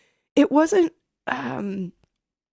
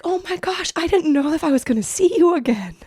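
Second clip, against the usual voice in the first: tearful relief; 7 semitones higher, 4 dB louder than usual. Retold or imitated. Mom fearful, tearful reunion.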